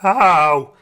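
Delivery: put-on lazy girl's loud "ow"; pained yelp. A narrator's reading. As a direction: yelp out in pain. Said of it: "yelped Lazy Linda".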